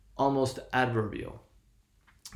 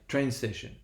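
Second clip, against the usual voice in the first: "Train station" with main stress on "Train"; "Train station", strongest on the first word; one-two-zero stress. Shown as a demonstration. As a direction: stress "Train", lighter "sta", unstressed "tion". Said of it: "one two oh".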